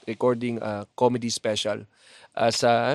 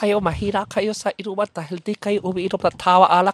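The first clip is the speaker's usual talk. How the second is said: put-on Chinese accent; 6 semitones higher, 5 dB louder than usual. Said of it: "Pakimura in Chinese accent".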